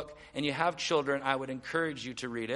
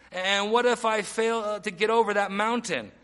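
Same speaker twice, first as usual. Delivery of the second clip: acted doubter, raised pitch and louder; doubting objection; 4 semitones higher, 4 dB louder than usual. Preacher voicing his own doubts to God, doubting objection. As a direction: push the worried objection up and out. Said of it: "what my mind thinks about".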